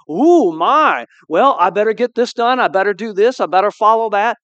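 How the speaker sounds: fretful Abraham. Retold or imitated. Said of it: "Abraham didn't go".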